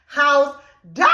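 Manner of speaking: a short half-shout; retold shout. Woman threatening cheating boyfriend, a brief shout. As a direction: punch out the threat. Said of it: "I say".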